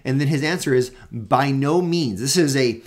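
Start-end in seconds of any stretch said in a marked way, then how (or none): 1.1-2.2 By no means, slow, with weight on no; By no means, slowly stressing no as a flat refusal; emphatic negation. Acted. Paul answers the rhetorical question, firm emphatic slow refusal. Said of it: "an emphatic, strongest negation possible".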